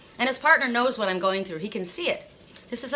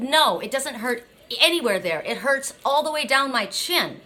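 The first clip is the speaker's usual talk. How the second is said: raised, emphatic protest of pain; vehement retelling; 4 semitones higher than usual. Retold or imitated. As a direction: re-enact telling the surgeon vehemently where it hurts. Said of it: "I wasn't speaking this vehemently to him".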